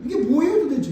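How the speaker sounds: loud, high-pitched demand; exasperated Jonah. Acted. Preacher as the prophet demanding an explanation from God, exasperated. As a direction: protest in exasperated disbelief. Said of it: "이렇게 얘기하는 거예요".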